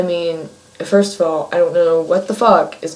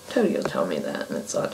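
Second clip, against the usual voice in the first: whisper; 12 semitones lower, 9 dB quieter, faster than usual. Real, not acted. Aside about a friend's pranks.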